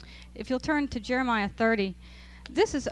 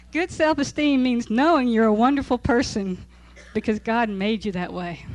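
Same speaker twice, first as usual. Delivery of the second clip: "Good self-esteem means knowing you're a wonderful person" read louder with a laughing, mocking punch on knowing; scoffing reread; 8 dB louder than usual. Teacher rereading the book line to her class, louder and mocking. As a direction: scoff at the claim as you repeat it. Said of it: "I'm not buying it".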